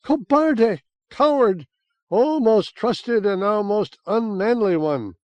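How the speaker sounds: high, loud, shrill-edged wailing scorn; furious tirade. Acted. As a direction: spit the words at the coward, then lament. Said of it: "and spat at me".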